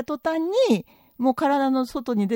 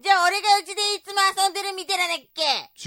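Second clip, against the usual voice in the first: indignant wife in a skit. Acted. Wife tells husband who does all housework, indignant. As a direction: give your husband an indignant telling-off. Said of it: "でけえ声出して".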